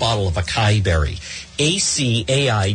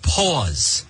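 "I love the" stretched very slowly, then a long gap before "pause."; mock quote, very slow; much slower than usual. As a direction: drag out a mock fan's line with a long beat. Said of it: "Such as they say".

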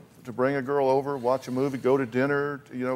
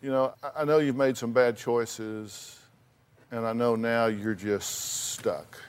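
gentle fatherly; 4 semitones lower than usual. Pretend. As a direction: talk it through gently. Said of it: "sat down on the couch and said".

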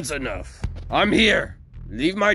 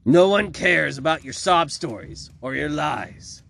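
higher, raised angry shout; shouting mayor; 5 semitones higher, 4 dB louder than usual. A narrator's reading. Mayor interrupts Victoria's speech, shouting. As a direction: shout her down. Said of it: "the mayor shouted out".

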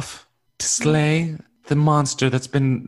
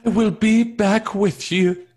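slow, higher heroic promise; heroic vow; 5 semitones higher than usual. Acted. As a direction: say it like a brave hero leaving. Repeats line as dramatic hero.

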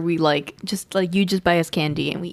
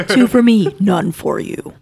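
playful laughing; 6 dB louder, slower than usual. Acted. Teasing Mark over candy.

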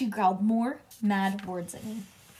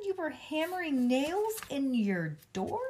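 incredulous mother; 7 semitones higher than usual. A narrator's reading. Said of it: "Her eyes got very bulging".

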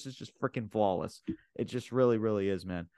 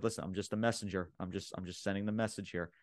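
softer, mildly placating retelling; retold backing off; 7 dB quieter than usual. Retelling Heyman backing away from Cody, softly placating. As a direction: drop the volume, lightly imitate someone backing away. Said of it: "like, backing up, like".

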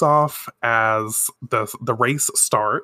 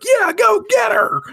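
loud, high mock cheer; rousing cheer; 5 dB louder than usual. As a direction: whoop like a cartoon sidekick egging someone on. Acting out Artemis cheering her on.

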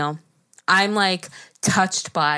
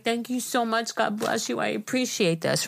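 soft, slightly raised thanks; humble gratitude; 3 semitones higher, 5 dB quieter than usual. Retold or imitated. Homeless man thanking her for the meal, soft gratitude.

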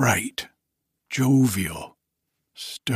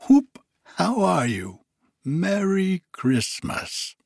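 put-on giddy old Scrooge; 4 semitones higher than usual. Scrooge overjoyed on Christmas morning, high giddy voice. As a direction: bubble over with joy as old Scrooge.

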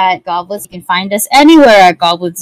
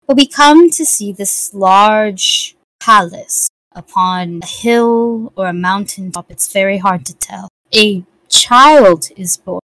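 story narration. A narrator's reading. GM's slow epilogue narration.

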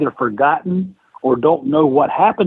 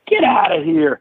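mock angry dismissal; 3 semitones higher than usual. Boss angrily throwing them out.

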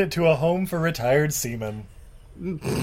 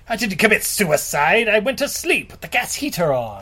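raised pitch, mock-offended protest; indignant denial; 4 semitones higher than usual. Ghost captain denies it was suicide, indignant.

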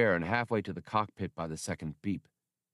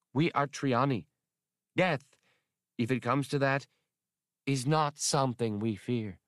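raised, proud declaration, lightly voiced; proud alien woman; 4 semitones higher than usual. Atwari telling Han her people fear no death, proud. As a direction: announce it like a warrior creed.

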